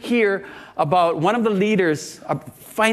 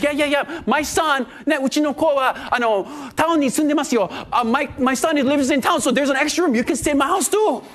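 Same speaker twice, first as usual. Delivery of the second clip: higher, keen retold invitation; eager offer; 5 semitones higher than usual. Second couple offering their son's room, eager. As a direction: pitch it up, eager to help.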